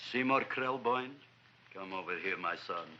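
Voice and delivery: low, soft fatherly summons; solemn low affection. Acted. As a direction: draw your new son close, low and tender. Newly doting father summons his son.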